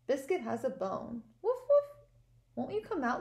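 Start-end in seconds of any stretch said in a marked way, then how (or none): 1.4-2.1 loud high yappy puppy woof; dog sounds. Acted. Teacher voicing Biscuit for the class, loud high bark. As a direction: bark it out like an excited little dog. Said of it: "all of my dog sounds".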